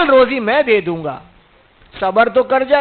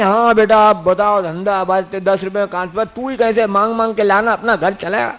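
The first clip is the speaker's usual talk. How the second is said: whiny weeping father; 5 semitones lower than usual. Retold or imitated. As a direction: play a father who breaks down before his child, hammed-up. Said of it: "پوچھے گا تو رونے بیٹھیں گے".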